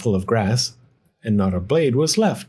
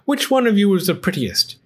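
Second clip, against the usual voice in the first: put-on very old man calling; 8 semitones higher than usual. A narrator's reading. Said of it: "he called to the cats".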